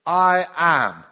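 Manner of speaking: loud, ringing "I am"; commanding declaration. Acted. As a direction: proclaim it with full authority. Jesus declares himself to soldiers.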